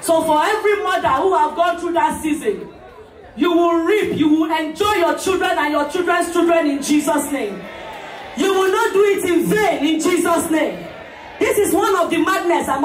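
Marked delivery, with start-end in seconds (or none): 0.0-10.9 preacher's blessing called out to the crowd; prayer blessing. Real, not acted. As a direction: declare the blessing like a pastor. MC blesses the mothers.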